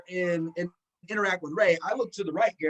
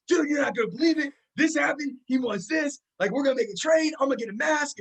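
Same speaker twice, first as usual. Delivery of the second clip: higher, fast and breathless with excitement; blurting out the news to a friend; buddy at the show hears the news, high and fast excited rush; 7 semitones higher than usual. Retold or imitated.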